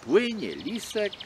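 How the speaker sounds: ordinary delivery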